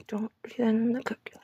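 a hushed self-reminder; whispered warning. Shown as a demonstration. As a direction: whisper the warning, half to yourself. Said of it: "warning repeated, whispered".

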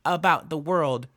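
high, loud, matter-of-fact imitation; Jordan Turpin's flat voice. Vlogger imitating Jordan on the 911 call, high and flat. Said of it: "I hear that in, in Jordan Turpin, where she's like".

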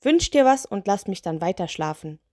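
mildly affronted lantern spirit; indignant. Acted. Spirit mistaken for bottle genie, mildly indignant. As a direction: grumble with a touch of outrage. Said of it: "Der Mann sah sie aufgebracht an".

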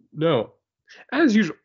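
high, cracking superhero voice. Acted. Co-host imagining young Batman under pressure, mock voice crack. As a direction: crack upward, clear the throat and retry, slowly. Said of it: "like, his voice cracked".

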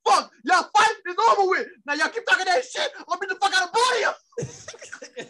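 mock angry threat. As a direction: warn them both off.

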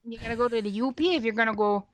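quick mock Upper Peninsula accent; Yooper accent. Showing how U P folks talk, mock Yooper accent. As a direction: say it like a Yooper, "north" as "nort". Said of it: "Not if you're from the U P".

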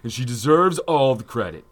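lightly voiced annoying chick. Co-host reading a fan's message, mock chick voice. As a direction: put on a hint of annoying chick. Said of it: "In your best annoying chick voice".

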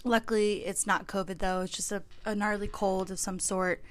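stuffy, nasal sick voice; a little blocked-nose and sniffly. Real, not acted. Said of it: "so I sound a little nasally".

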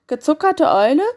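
panicked owl calling out; alarmed owl cry. A narrator's reading. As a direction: hoot in alarm, then make a hasty exit. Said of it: "rief die Eule".

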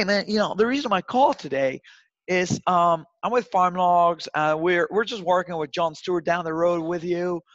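a touch of folksy pal, pitching loosely; casual farmer pitch. Shown as a demonstration. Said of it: "match their accent and their attitude".

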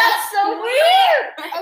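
high, long drawn-out disbelief; high-pitched incredulous wail; weirded-out exclamation. Real, not acted. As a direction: stretch it out in real astonishment. Reacting to tangled family tree.

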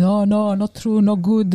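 lightly voiced protesting Italian father; Italian dad's reaction. Italian dad hearing his daughter is gay, lightly imitated protest. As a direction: imitate a dad refusing to believe it. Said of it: "Italians, you know what I mean".

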